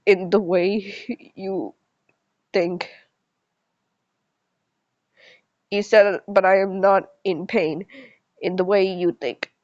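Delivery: measured, deliberate read-aloud; story narration. A narrator's reading. Reading a character's reply about his pain, measured story narration.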